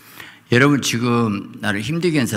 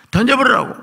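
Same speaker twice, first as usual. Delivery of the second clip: 높은 절규; 12 semitones higher, 3 dB louder than usual. Acted. 요나의 절규.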